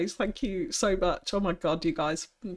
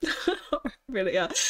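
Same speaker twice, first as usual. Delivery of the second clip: teasing laugh; 3 semitones higher than usual. Real, not acted. Teasing next city name.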